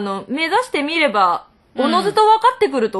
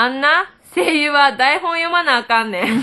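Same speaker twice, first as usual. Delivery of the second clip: Kansai dialect reading. Retold or imitated. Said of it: "あ、これ関西弁。".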